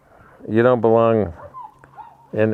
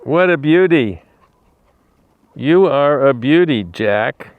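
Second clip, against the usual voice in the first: higher, gushing praise; admiring pet talk; 3 semitones higher, slower than usual. Real, not acted. Praising a beautiful animal to its face, admiring pet talk. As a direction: lift the pitch to coo over an animal.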